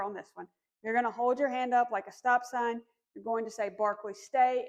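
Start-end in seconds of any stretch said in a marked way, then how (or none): 3.7-4.7 firm tone. Shown as a demonstration. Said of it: "in a pretty firm tone".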